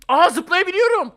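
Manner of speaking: loud, high, drawn-out delight; real burst of gamer excitement; excited discovery. Real, not acted. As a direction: call it out in amazed excitement. Discovers that jumping is possible.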